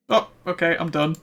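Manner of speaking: sudden loud realization, rising; surprised. Real, not acted. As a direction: blurt it out in surprise. Quest completed suddenly.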